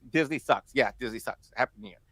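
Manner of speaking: low, softened, deflated delivery; resigned concession. Retold or imitated. Siblings conceding the point on a New Year's call, resigned. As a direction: drop pitch and volume as if giving in.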